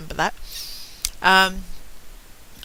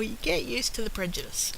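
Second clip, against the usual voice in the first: whispered aside; 4 semitones higher, 6 dB quieter than usual. Real, not acted. Bitter aside about prejudice.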